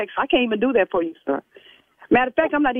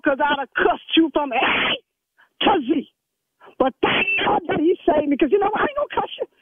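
rising indignant scold, pitch climbing higher; church lady scolding; 4 semitones higher than usual. Acted. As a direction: tell him off like an offended church mother. Church lady scolds rude caller.

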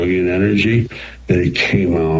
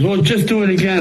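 sound man's casual request; 12 semitones higher, faster than usual. Retold or imitated. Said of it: "He goes".

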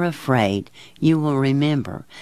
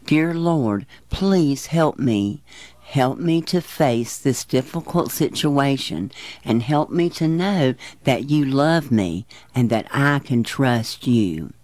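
gentle spoken prayer. Shown as a demonstration. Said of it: "We can pray".

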